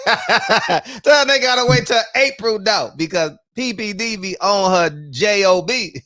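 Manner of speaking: slow, laughing through the words. Shown as a demonstration. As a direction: crack up while rereading it.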